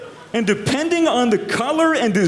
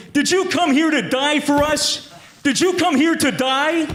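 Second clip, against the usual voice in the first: higher, hammed-up drill-instructor yell; mock instructor yell; 5 semitones higher than usual. Instructor screaming at a bogan recruit, mock yell. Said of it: "His instructor screaming at him".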